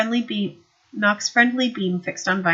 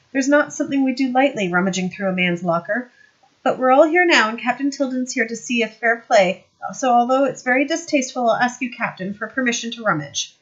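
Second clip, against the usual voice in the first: higher, louder smirking sergeant; Knock's voice; 5 semitones higher, 5 dB louder than usual. Acted. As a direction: play the sly sergeant, pleased with himself. Knock asks to search locker.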